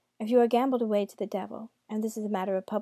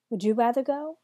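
devil voice; 2 semitones higher, 6 dB louder than usual. Acted. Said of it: "the devil said swiftly".

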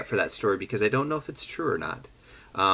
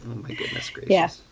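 mock exclamation; 8 semitones higher than usual. Real, not acted. Exaggerated exclamation.

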